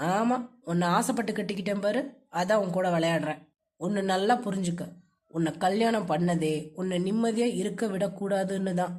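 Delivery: low, cold, bitter man's voice; low-pitched, sarcastic and hostile husband; vengeful husband. Acted. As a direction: spell out your spite to your wife, low.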